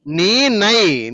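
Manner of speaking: very slow, each sound drawn out: నీ, నై; slow model reading. Shown as a demonstration. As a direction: spell out నీ, నై slowly for the student. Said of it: "నా అనొద్దమ్మా". (నెమ్మదిగా, ఒక్కో అక్షరం విడదీసి)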